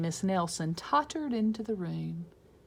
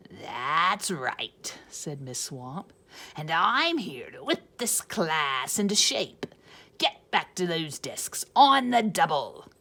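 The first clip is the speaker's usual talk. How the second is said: stern witch; 2 semitones lower, 3 dB louder than usual. Acted. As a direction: bark orders like a strict witch. Swamp voice.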